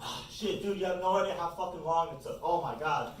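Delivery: high, hushed voice, venting about a bad errand; put-on high voice of an exasperated young guy; griping young workman. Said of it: "some, like, twenty-two-year-old guy from Home Depot".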